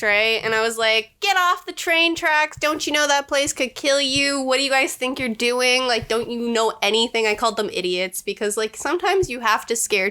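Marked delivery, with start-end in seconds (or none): 1.2-7.3 scary mom voice. Retold or imitated. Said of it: "that scary voice".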